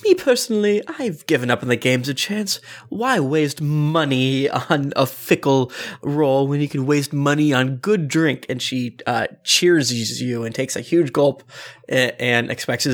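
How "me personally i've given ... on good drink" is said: airy rich lady musing. Acted. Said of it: "So, Cass".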